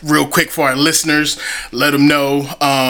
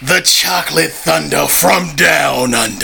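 ring announcer. Acted. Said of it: "fire introduction".

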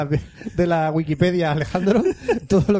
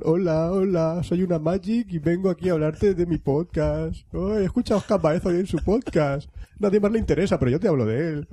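mock pitch. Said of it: "¿Tú te imaginas en la central de Sony Japón?".

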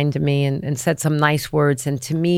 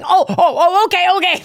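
much higher, laughing and a bit louder; amused mock reply; 12 semitones higher, 3 dB louder than usual. Brushing off the actor's preparing talk, high laughing reply. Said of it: "I was like".

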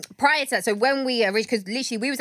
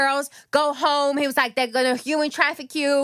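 higher, drawn-out mock shout; retold warning shout; 4 semitones higher, slower than usual. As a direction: imitate a man calling out a warning.

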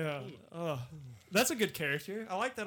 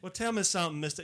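Southern accent demo; 3 dB quieter, faster than usual. Shown as a demonstration. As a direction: show how Southern sounds. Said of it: "remember my fucking Southern accent".

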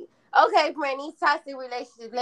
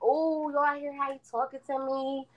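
higher, put-on voice of an offended girlfriend; mock indignant girlfriend; 5 semitones higher, 5 dB quieter than usual. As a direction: play the girl who's been wronged. Mocking girlfriend in toxic fight.

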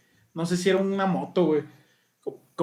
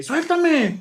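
higher mock cry of a woman; imitated woman's cry; 9 semitones higher than usual. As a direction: pitch it up like a woman pleading, lightly. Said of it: "De una ruca". (grito de mujer imitado, más agudo)

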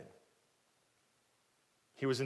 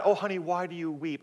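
tender husband, rejected reading; 3 semitones higher than usual. Acted. Husband consoling his weeping wife the wrong way, tender. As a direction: ask gently, as if comforting her. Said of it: "it wasn't that".

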